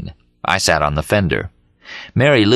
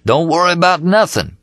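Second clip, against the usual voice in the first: lightly voiced radio DJ, pitched higher; a hint of a smooth jazz DJ; disc jockey; 11 semitones higher than usual. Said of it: "with the disc jockey saying".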